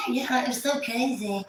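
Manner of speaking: mimicking a friend's innocent excuse; Amanda's excuses.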